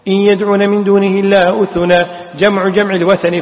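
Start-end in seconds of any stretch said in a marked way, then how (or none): 0.1-2.0 recited "أثنا" as uthunan, starting with u; Ibn Abbas's reading. Shown as a demonstration. Teacher reciting Ibn Abbas's variant reading, "أثنا" said uthunan. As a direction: draw out "إلا", then "أثنا" as u-thu-na. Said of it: "فصير الواو همزة".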